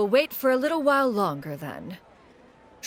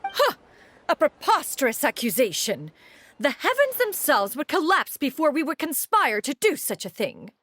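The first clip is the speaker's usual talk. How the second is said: mock indignation; 4 semitones higher than usual. Seller indignant at swindle accusation.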